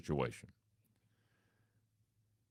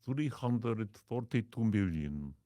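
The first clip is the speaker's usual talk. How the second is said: slow, grand mock Arab accent; name the huge figure to get a reaction; a slow, lightly foreign boast; 2 semitones higher, slower than usual. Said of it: "And I say".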